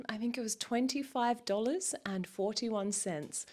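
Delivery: secretive whisper. Real, not acted. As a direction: whisper it like a confession. Secretly revealing small YouTube earnings.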